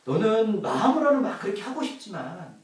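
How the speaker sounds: slow, tender, with a little laugh; as God gently understanding the weak; 하나님의 다정한 목소리; God's understanding voice. Acted. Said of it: "하나님 우리를 바라보실 때 이렇게 하는 거예요".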